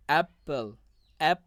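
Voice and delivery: অ্যাপল with a firm first syllable অ্যাপ; teaching demo of অ্যাপল, first syllable stressed. Shown as a demonstration. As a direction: punch অ্যাপ, then repeat it alone. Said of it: "এটার উপর জোর দেওয়া হয়".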